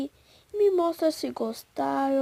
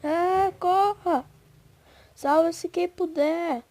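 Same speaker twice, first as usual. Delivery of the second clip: panicked shout; 3 semitones higher, 3 dB louder than usual. Real, not acted. Fleeing danger in game.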